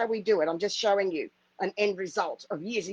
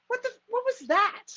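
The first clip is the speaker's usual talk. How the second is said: startled exclamation; 11 semitones higher, 3 dB louder than usual. Retold or imitated. Startled by the nurse's call.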